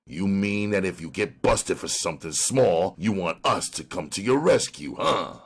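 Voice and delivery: sharp, challenging cop question. Acted. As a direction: cut in sharply. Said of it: "Ryan asked sharply".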